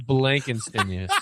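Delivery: "Blankenstein" slowly attempted, with an extra N in BLANK; mispronounced surname. Real, not acted. Host retrying a player's surname, "Blankenstein" still botched with BLANK. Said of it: "this name I'm gonna butcher".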